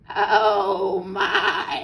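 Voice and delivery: high, loud storybook fox; theatrical fox exclamation; fox's mock concern. A narrator's reading. Sly fox greets the birds.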